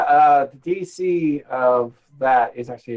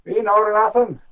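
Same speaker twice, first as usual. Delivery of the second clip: gruff voice; 6 semitones higher than usual. Acted. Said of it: "a gruff voice from within".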